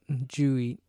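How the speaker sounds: "Did you eat" slurred to "joo-eat"; Florida-style run-together "Did you eat"; mashed together. Shown as a demonstration. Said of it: "we just mash everything together".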